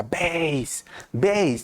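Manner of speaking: "base" drawn out for best, without its T; Latino learner's mispronunciation. Retold or imitated. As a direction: say "base" slowly as a failed "best". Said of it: "falta la T o algo".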